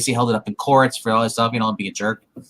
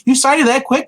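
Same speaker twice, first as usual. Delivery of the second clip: high-pitched mock disbelief; imitated incredulous wife; retold surprised wife; 10 semitones higher, 4 dB louder than usual. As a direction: question it, pitch jumping up. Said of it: "she's like".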